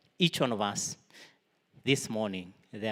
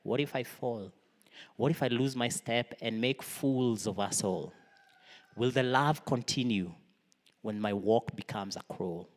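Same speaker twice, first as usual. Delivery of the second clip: reciting lyrics. Shown as a demonstration. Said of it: "hear the words of the chorus".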